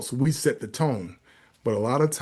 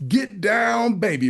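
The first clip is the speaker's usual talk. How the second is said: high-pitched mock parakeet outburst; bird yelling; 8 semitones higher, 3 dB louder, slower than usual. Parakeet in the middle of church, high mock yell. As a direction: call it out high, the punchline bird. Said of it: "the bird yells out".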